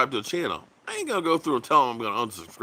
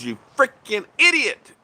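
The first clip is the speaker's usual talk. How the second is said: exasperated jab; 8 semitones higher, 7 dB louder than usual. Real, not acted. Exasperated at viewers.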